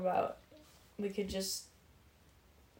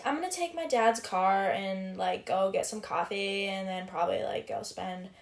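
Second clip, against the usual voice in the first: put-on valley girl voice. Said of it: "when people talk like that".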